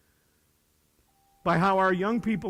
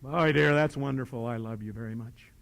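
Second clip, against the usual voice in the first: lower, fading dutiful reply; mock patient husband; 6 semitones lower than usual. Husband's bored reply to wife.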